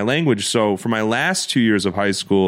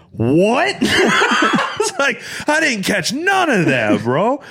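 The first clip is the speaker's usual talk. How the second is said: laughing confusion; 11 semitones higher than usual. Real, not acted.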